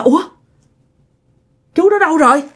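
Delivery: frightened calling. Retold or imitated. Scared rider calls for the man who has vanished, alarmed. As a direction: call out repeatedly, pitch jumping up in alarm. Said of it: "Bạn sợ".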